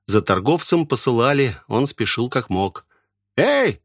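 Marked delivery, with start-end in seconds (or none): 3.4-3.8 high calling yell. Acted. Pickle seller yelling at the gate. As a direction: call out across the yard. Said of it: "завопил он".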